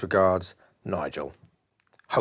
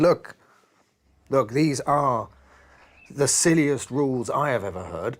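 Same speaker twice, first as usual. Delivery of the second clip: louder, exasperated outburst at the rules; losing patience; 4 semitones higher, 4 dB louder than usual. Acted. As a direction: snap with fed-up frustration, loud at first. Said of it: "that was when I broke".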